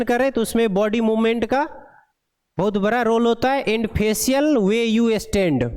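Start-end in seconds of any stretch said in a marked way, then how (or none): 3.6-5.7 slow, even dictation of an English passage; deliberate read-aloud pace; slow textbook reading. Acted. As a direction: read each word out slowly for the class. Reads English text aloud slowly.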